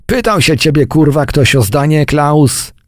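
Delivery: high-pitched, irate challenge; angry dressing-down. A narrator's reading. Major rebuking Klaus for butting in, angry dressing-down. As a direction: put a mouthy soldier in his place.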